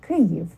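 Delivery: Kyiv with lips spread on the first syllable; smiled pronunciation. Shown as a demonstration. Teacher showing the smile trick, Kyiv with spread lips. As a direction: say Kyiv through a slight smile, stressing Ky. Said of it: "it helps if you smile a little bit to say it".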